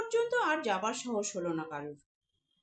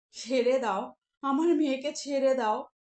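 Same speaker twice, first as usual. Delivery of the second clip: loud weeping plea; mother begging the giant for her daughter; tearful pleading; 5 dB louder than usual. Acted. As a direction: beg through tears. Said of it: "তিনি কাঁদতে কাঁদতে বললেন".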